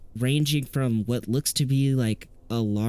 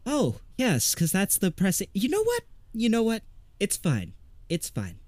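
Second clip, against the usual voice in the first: flustered sarcasm; 5 semitones higher than usual. Acted. Flustered Woodrow answers.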